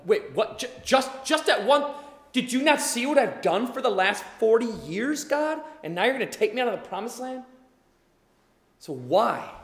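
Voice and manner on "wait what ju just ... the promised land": higher, fast, indignant protest; lightly voiced stunned Moses; mock shocked Moses. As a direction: plead in disbelief.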